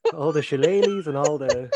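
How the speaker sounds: laughing through a mock toast. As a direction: hold back a laugh.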